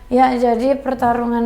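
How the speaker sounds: low mumbled rush trailing into babble; badly paced classroom presentation, demonstrated; hard to hear. Shown as a demonstration. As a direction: mumble it so the words get lost. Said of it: "itu kan kurang terdengar ya".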